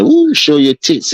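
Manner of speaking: high, drawn-out mock party whoop; imitated drunken holler. Mocking drunk revelers to his friend, imitated holler. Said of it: "You should see them white people holler".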